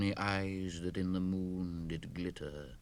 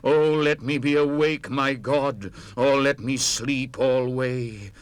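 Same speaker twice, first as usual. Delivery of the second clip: pleading prayer; 4 semitones higher, 7 dB louder than usual. Acted. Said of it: "and I with sobs did pray".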